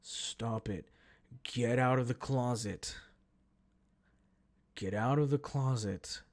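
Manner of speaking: lightly voiced deadpan command; mildly stern, evenly repeated telling-off; exasperated man. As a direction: imitate a man issuing firm, measured orders. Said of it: "He goes".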